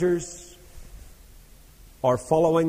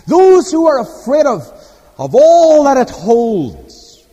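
put-on broad Scots accent; 5 semitones higher, 8 dB louder, slower than usual. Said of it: "I want to read it in broad Scots".

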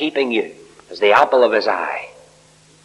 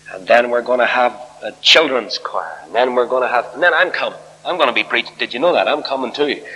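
retold boasting, listing it all off; mildly full of yourself, mimicking your younger self; self-important young preacher. Young preacher pitching his meeting to a newspaperman, mildly self-important. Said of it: "that must have been the attitude".

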